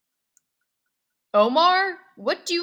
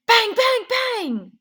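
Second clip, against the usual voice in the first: loud bangs; 10 semitones higher, 8 dB louder, slower than usual. A narrator's reading. Gunshots burst in the story.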